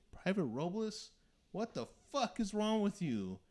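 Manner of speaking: high, loud mock drill sergeant bark; drill sergeant yelling. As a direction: yell it down at the recruit like a sergeant.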